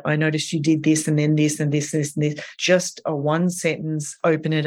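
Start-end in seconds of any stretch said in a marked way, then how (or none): 0.0-2.4 fast, rattled-off list of accusations; rat-a-tat rapid fire. Shown as a demonstration. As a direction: fire off every observation quickly, one after another. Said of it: "don't go rat-a-tat-tat-tat".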